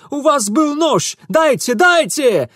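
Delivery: high, loud frantic plea; Ingvar begging. A narrator's reading. Ingvar begs Mitya for the knife, frantic. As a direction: grab and beg in panic.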